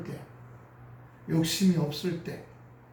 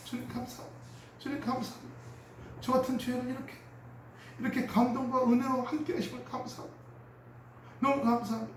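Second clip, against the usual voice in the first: hushed, breathy prayer of thanks, much softer; tearful thanks; 3 semitones higher, 7 dB quieter than usual. Retold or imitated. Grace-filled believer thanking the Lord in a hushed voice. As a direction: whisper thanks to God as if moved to tears.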